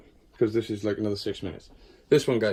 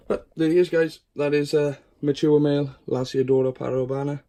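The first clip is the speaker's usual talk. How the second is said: excited reveal; 6 semitones higher, 6 dB louder than usual. Real, not acted. Excited showing the male spider.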